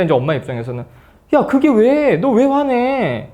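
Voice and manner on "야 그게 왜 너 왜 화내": much higher, slow, puzzled mom; drawn-out baffled comeback; mock mother, caught off guard; bewildered mother. Mother answers upset daughter.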